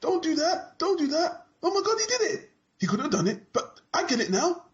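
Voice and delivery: high, laughing melodramatic onlooker; mock dramatic moaning. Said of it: "They're always moaning about".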